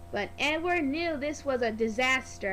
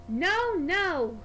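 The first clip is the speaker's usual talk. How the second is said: firm refusal; 3 semitones higher, 3 dB louder than usual. Acted. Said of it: "whistled Edward".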